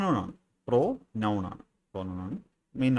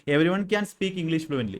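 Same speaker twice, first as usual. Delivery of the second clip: slow dictation; 5 semitones higher, 3 dB louder, much slower than usual. Shown as a demonstration. Teacher reading an example sentence to students, slow and clear. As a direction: read out slowly, word by word.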